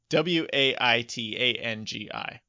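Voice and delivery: spells Waitangi letter by letter, slowly; slow spelled letters. Shown as a demonstration. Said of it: "Say that again?".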